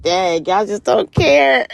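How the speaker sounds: slow, laughing mock outrage; laughing disbelief. Reacting to the believer's answer, slow and laughing. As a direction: drawl it out through a laugh. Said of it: "And I was like".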